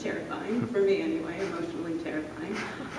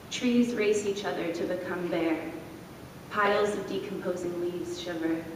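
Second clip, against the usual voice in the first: plain. Acted. Reads second poem.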